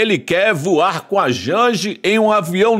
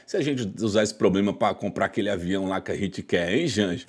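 scheming whisper; 11 semitones lower, 9 dB quieter than usual. Retold or imitated. President scheming with wife.

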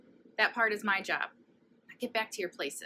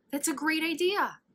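higher, louder delighted cry; shrieking; 9 semitones higher, 7 dB louder than usual. Acted. Nebraska shrieking with delight at the party plan, high and loud. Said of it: "shrieked Nebraska".

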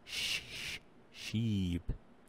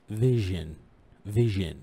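loud word demo; 8 dB louder, slower than usual. Shown as a demonstration. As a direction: call out "فيجن" clearly. ("فيجن" بصوت عالٍ وبجيم معطشة)

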